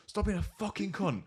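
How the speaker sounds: high, drawn-out imitation of a yell; mock bellow. Chav girl bellows at the customer, mock yell high up. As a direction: fling the insult across the room. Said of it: "She's bellowing back".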